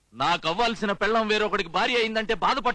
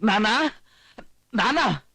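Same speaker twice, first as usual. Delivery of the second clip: urgent call for father; calling out loudly; much slower than usual. Acted. Son runs in looking for his father, calling out. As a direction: shout for dad across the house. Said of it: "ఎందుకు అరుస్తున్నావు".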